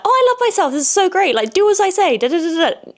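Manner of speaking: squeaky parody of someone in love with herself; mock self-adoring diva. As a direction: ham up a vain, bossy self-lover. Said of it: "And I'm just being like".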